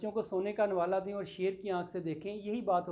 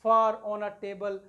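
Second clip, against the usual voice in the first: slow poem recital; 5 dB louder, much slower than usual. Shown as a demonstration. Teacher reciting a poem line.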